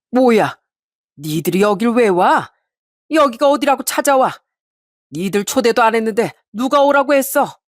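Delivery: hostile uncle turning them away; blunt uncle. Acted. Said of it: "퉁명스럽게 말하는 큰 외삼촌". (퉁명스럽게 쏘아붙이는 큰외삼촌)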